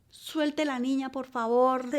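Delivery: mildly imitated begging, drawn-out opening; retold pleading. Mother begging the drunk man to release her child, mild retold pleading. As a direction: plead mildly, reliving the moment. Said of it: "Yo rogaba, yo gritaba".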